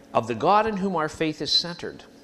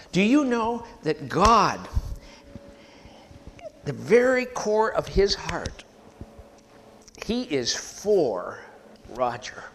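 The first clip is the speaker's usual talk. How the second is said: impassioned; 4 semitones higher, 3 dB louder, slower than usual. Real, not acted. Impassioned preaching, name by name.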